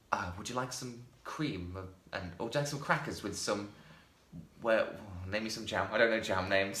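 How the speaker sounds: slow, mock-refined offering of cream; pretentious posh drawl. Imitating the film's characters to a friend, slow and mock-refined. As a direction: lightly play a pretentious host. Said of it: "everything said like that".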